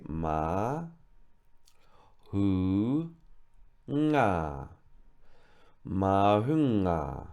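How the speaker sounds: mahunga split ma, hu, nga, then joined slowly; syllable by syllable. Shown as a demonstration. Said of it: "we're going to say".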